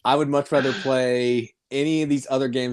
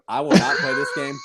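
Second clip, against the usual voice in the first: emphatic shout. Real, not acted. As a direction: shout the refusal. Hating Happy Salmon.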